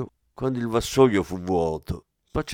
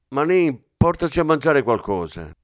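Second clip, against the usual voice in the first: firm, louder order to a subordinate; commanding order; 6 semitones higher, 5 dB louder than usual. Acted. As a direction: give the order with authority. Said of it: "ordinò il commissario".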